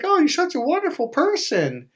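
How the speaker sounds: high-pitched gushing imitation; mock two-faced sweetness; fake praise. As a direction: coo insincere flattery way up high. Mimics two-faced praise to his face.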